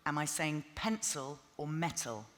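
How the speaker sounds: each word shaped slowly for lip reading; over enunciating. Shown as a demonstration. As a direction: mouth pencil and metal slowly and clearly. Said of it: "read my lips".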